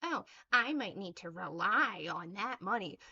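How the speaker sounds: sneering mimicry of a critic's excuse; mocking quote. Ranting at a critic, she parrots the excuse in a mocking voice. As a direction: throw her excuse back in a put-on voice.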